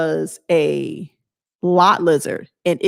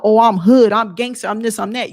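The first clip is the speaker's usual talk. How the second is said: mock bravado; 3 dB louder than usual. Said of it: "with this bravado".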